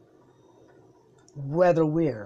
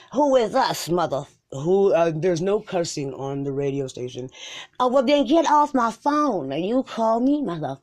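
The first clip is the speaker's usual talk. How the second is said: angry caller. Pretend.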